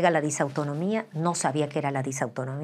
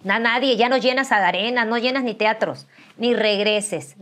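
a lightly voiced hater, higher and louder; mocking critics; 5 semitones higher, 4 dB louder than usual. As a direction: sneer at her age like a hater. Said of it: "Me decían".

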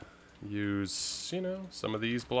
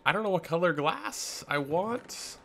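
high, slow, goofy sing-song; high silly voice; 9 semitones higher than usual. Acted. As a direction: pitch it up into a silly voice. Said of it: "Don't know why I just did that".

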